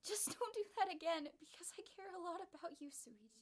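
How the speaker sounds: high, tearful yell. Acted. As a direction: shout it out through tears. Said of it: "he yelled".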